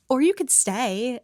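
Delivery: lightly imitated cheery switch; mock-cheerful retold line. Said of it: "flips right into this cheery demeanor".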